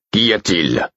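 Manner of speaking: irritated question, mildly acted; annoyed. A narrator's reading. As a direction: ask with a touch of impatience. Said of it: "demanda Burick d'un ton agacé". (ton un peu agacé)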